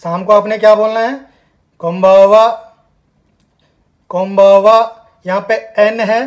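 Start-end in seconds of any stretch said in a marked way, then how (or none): 1.8-5.0 कोम्बावा said loudly with a clear m; loud model word. Shown as a demonstration. Teacher to class, drilling the evening greeting: loud. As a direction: project the word कोम्बावा boldly. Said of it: "उच्चारण आपने ज़ोर से करना है".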